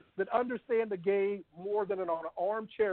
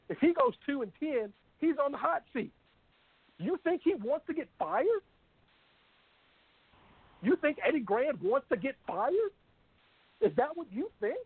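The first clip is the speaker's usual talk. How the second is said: challenging, higher-pitched rhetorical questions; indignant rant; 5 semitones higher than usual. Real, not acted. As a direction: fire incredulous questions at the doubters. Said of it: "the end of Terry's rant".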